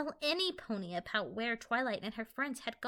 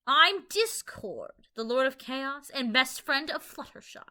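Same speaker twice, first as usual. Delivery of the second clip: annoyed; 4 semitones higher, 10 dB louder than usual. A narrator's reading. Discord introducing himself to Capper, mildly annoyed. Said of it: "annoyed and irritated".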